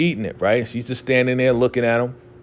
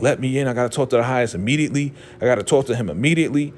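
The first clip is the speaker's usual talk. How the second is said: fast, pressing retold plea; lightly acted rush to be let in; urgent plea; much faster than usual. Elder mother pleading with the guard to see the Highest, urgent.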